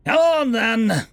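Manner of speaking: slow, high, loud challenging yell. A narrator's reading. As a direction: bellow it slowly, daring the worm to come. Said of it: "Khan yelled".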